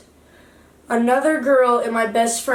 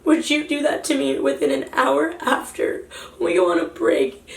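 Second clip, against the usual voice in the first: high-pitched, upset retold outburst; mild re-enacted yell; 4 semitones higher than usual. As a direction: demand an answer, reliving the argument. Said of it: "I was yelling at him".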